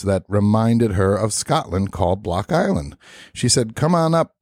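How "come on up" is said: put-on higher-pitched stab at a Scottish accent; shaky attempt at Scottish. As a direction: try a Scottish accent, unsure of it. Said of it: "I don't know if I can do a Scottish accent".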